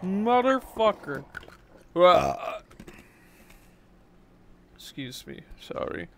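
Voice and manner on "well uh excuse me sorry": talking while crunching ice; words round a mouthful of ice; chewing ice. Real, not acted. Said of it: "I'm chewing on ice in the mic".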